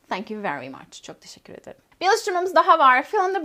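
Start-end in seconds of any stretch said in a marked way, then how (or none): 0.1-1.8 whispered thanks. Shown as a demonstration. Teacher softly closes the phone dialogue, whispering. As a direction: breathe the thanks without voice.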